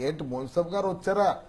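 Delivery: lightly voiced bold boss; a hint of film-villain impersonation; Rao Gopala Rao. Boss asks whether the munsif came, lightly bold impersonation. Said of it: "Rao Gopalarao గారు".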